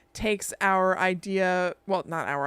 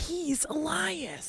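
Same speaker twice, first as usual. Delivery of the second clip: slow eerie reveal; 8 semitones higher, 6 dB quieter, much slower than usual. Retold or imitated. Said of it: "And he just goes".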